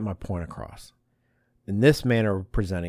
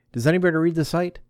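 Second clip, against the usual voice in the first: calling out; 8 semitones higher, 5 dB louder than usual. Retold or imitated. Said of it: "I was like".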